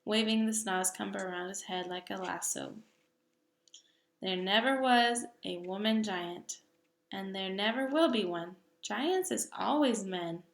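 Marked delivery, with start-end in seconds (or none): 4.2-10.4 a hint of a booming giant, firm and sure; lightly voiced big friendly giant. Giant lectures the little girl about giants, lightly voiced.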